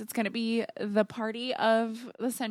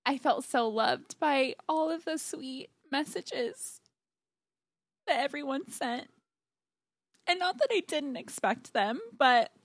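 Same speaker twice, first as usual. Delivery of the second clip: near tears; 3 semitones higher than usual. Real, not acted. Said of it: "I'm gonna cry".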